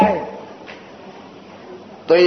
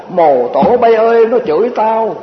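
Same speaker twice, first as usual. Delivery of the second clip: put-on old lady's verse. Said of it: "bà dịch ra cái kiểu của bà".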